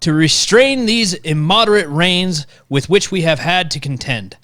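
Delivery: put-on lightly Southern-accented prayer reading. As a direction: let a Southern accent creep back into the prayer. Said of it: "Went back to Southern".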